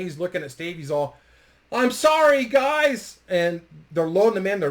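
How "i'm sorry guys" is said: loud, high retold apology; imitating a distressed, raised-voice apology; called-out apology. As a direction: call it out to teammates from a stretcher. Injured goalie calls out from stretcher.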